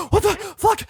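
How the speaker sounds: gasping, high-pitched disbelief; gasp, then squeak out bewilderment; acted-out stunned outburst; retold shock. Acts out bewildered shock afterwards.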